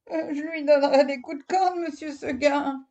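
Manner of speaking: high, quick little goat reply. Acted. Goat answers Monsieur Seguin, high and sweet.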